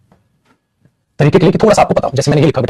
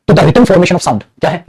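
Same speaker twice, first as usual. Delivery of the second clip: slow question; much slower than usual. Shown as a demonstration. Teacher posing question to class.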